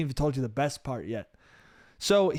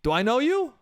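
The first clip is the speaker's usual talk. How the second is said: hungover uncle; 7 semitones higher than usual. Retold or imitated. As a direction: ask it like he's never seen you. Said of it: "and he goes".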